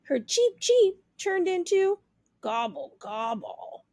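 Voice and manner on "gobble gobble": low, soft gobble; turkey gobble. Acted. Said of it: "talk like the other turkeys".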